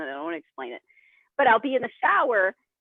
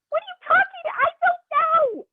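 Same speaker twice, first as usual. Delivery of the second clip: laughing mock confusion; 5 dB louder than usual.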